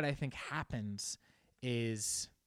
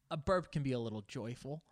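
ordinary delivery

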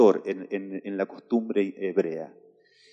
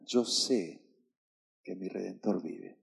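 hushed declaration; 4 semitones lower, 10 dB quieter than usual. Shown as a demonstration. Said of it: "lo primero que usted tiene que hacer".

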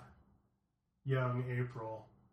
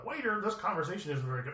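higher-pitched imitation of a sketch diner; sketch diner complaint; 6 semitones higher than usual. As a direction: complain to the waiter, quoting a comedy sketch. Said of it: "with John Cleese".

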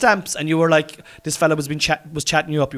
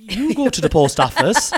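laughing insistence; 2 semitones higher, 4 dB louder than usual. Retold or imitated. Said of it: "And I was like".

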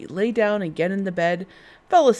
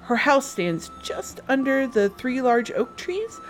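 put-on little girl voice; 6 semitones higher than usual. Girl describes grandmother's house.

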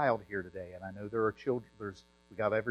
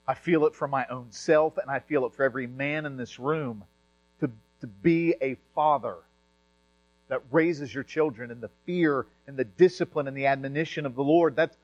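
insistent; 3 semitones higher, 6 dB louder than usual. Real, not acted. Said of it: "I sound very forceful 'cause I feel it".

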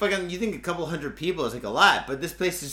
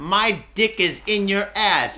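taunting; 3 semitones higher, 6 dB louder, slower than usual. Acted. Taunting the company.

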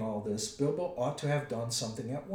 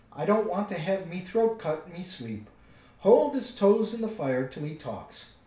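loud, raised troll voice; angry troll; 6 semitones higher, 7 dB louder than usual. A narrator's reading. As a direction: order rough treatment of the captive.

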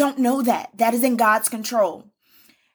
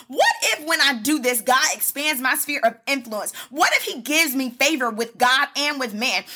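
hopeful what ifs; 3 semitones higher than usual. Shown as a demonstration. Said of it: "that is what you say in the face of the devil".

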